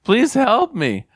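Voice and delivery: joke-teller's mock yell; acted yell. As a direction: call up desperately to God for help, mildly acted. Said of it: "he yells".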